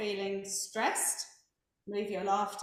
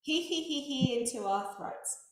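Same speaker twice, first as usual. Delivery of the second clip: light demo giggle "he, he, he", a touch higher; 3 semitones higher than usual. Shown as a demonstration. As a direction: giggle it into the throat. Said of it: "just gonna giggle".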